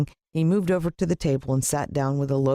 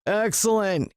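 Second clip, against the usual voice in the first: gleeful villain; 9 semitones higher, slower than usual. Acted. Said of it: "he said".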